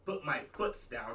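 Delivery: "foots" said deliberately, slow and low; saying foots. Shown as a demonstration. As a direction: drags "Put my foots down" on purpose. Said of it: "I'm just talking like that".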